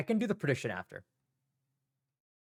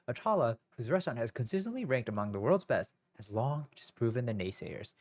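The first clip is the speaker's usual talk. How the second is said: reading aloud in a stilted test voice; stiff test reading. Real, not acted. Student reading the ACT passage aloud, stilted. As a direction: read it like a nervous student reciting. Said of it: "why am I reading like that?".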